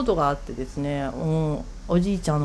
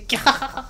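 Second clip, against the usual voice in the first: squeal; 7 semitones higher, slower than usual. Retold or imitated. Squealing at the uncle's tale.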